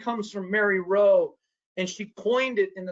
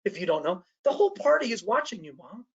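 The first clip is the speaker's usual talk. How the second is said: raised pitch, exasperated mock retort to his mother; embarrassed son calling out his mother at a party, higher and exasperated; retort to mom; 4 semitones higher than usual. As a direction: play it back as a higher, fed-up scolding of mom. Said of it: "I said".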